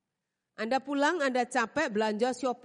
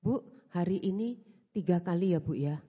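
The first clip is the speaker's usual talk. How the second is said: imitating the congregant man; 5 semitones lower than usual. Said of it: "Minggu depan ketemu lagi".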